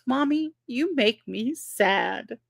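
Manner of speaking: put-on slow little-boy pout, mild; a small child's sulky complaint, lightly voiced; toddler quote. Toddler telling mommy he is sad, mild pout. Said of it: "and he goes".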